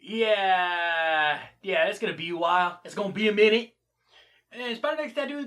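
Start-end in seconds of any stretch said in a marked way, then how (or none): 0.0-3.8 serious reply. Retold or imitated. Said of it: "Super Serious Guy's like".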